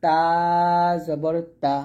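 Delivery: তা said short and quick; short crisp তা. Shown as a demonstration. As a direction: say তা quick with no stretch on the vowel. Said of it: "তখন আর টান দিব না".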